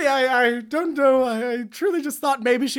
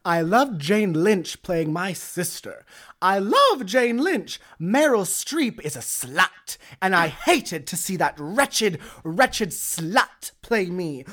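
put-on Julia Child voice; 4 semitones lower, slower than usual. Playing Julia Child, scornful.

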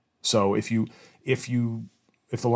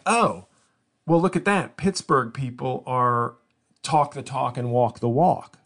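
pleased surprise; 3 semitones higher, 4 dB louder, slower than usual. Retold or imitated. His pleased inner reaction.

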